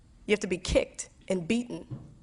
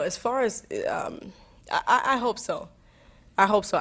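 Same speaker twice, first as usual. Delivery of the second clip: ordinary delivery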